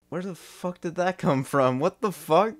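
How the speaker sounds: high, disbelieving cry of confusion; baffled outburst. Real, not acted. Creator reacting to his past self's odd remark, baffled and high.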